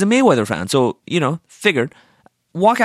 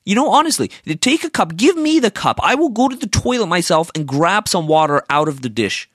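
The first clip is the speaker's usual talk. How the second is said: indignant rant; 5 semitones higher than usual. Retold or imitated. Ranting at the waitress.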